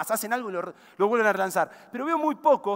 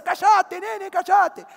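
sharp, higher, louder hush, as if cutting someone off; urgent hush; 7 semitones higher, 3 dB louder, much slower than usual. Retold or imitated. Uber driver hushing the French couple, urgent sharp hush. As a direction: tell them to shut up, fast and urgent.

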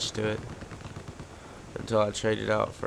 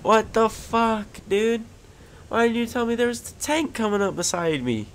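outraged yell; 11 semitones higher than usual. Real, not acted. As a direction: shout it at the teammate who let you down. Yelling at teammate after near death.

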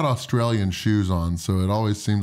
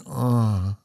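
savouring groan. Retold or imitated. Guest recalling a favourite food challenge, savouring groan. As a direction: let out a relishing "uh". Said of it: "just made me say".

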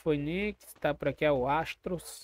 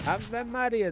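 excited; 8 semitones higher, much slower than usual. Real, not acted. Team just eliminated.

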